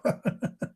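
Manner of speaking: brief, low-volume chuckle; short laugh. Real, not acted. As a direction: laugh softly to himself. Laughs after mocking the word.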